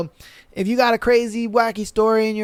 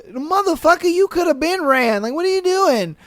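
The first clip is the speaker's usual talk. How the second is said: high, loud disbelieving shout at the donkey; exasperated yell; 10 semitones higher, 3 dB louder than usual. Retold or imitated. Driver yelling at donkey.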